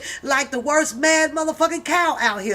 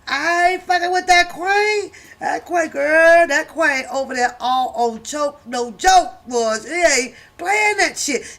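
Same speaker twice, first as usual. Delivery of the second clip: hyped loud ranting; 4 semitones higher, 5 dB louder than usual. Real, not acted. Raving to viewers about the Queen, loud and excited. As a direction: rave about her like she's fierce.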